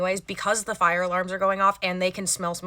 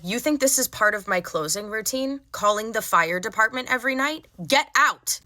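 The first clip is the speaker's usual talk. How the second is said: retold anger; 3 semitones higher than usual. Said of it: "I said".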